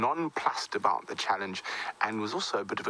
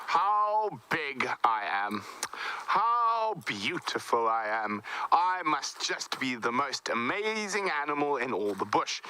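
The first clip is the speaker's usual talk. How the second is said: proud elephant thinking; 4 semitones higher, slower than usual. Acted. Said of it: "was thinking to itself".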